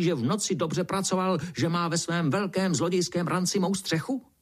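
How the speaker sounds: a small insect in a huffy rage; fuming beetle. Acted. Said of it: "brouk se vztekal dál".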